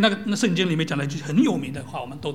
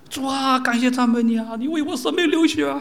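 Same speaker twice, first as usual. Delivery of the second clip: lightly hammed-up pious prayer, a bit louder; mocking prayer tone; 5 semitones higher, 5 dB louder than usual. Preacher mimicking the copied seminary prayer, mildly hammed-up. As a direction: parody the sing-song prayer once more. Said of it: "也这样子了".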